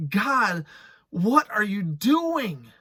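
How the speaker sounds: a pleading cry, slowed and loud; crying out to God. Pretend. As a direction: call out to God in despair. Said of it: "Joseph had to cry that cry".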